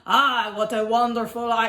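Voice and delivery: put-on botched Australian through a French accent; failed Australian accent. French dinosaur imitating Australians, a badly failed Australian accent. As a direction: attempt Australian and break off. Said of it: "they said it in Australian".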